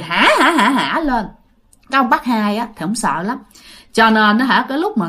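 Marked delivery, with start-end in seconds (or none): 0.0-1.0 spelt-out mock ghost cackle; acted, half-spoken laugh; ghost's laugh. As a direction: imitate a ghost laughing in separate "ha" bursts. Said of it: "hỏi xong còn cười".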